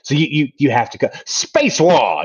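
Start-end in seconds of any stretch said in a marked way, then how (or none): 1.3-2.2 punchy, exclamatory title read; excited shout. Shown as a demonstration. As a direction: announce it like a game title. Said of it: "you have to say it like that".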